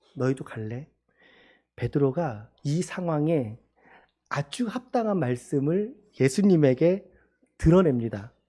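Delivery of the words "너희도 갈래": concerned, disappointed, let-down and worried tone. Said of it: "실망하면서, 염려하면서 제자들의 마음에 확신을 주려고".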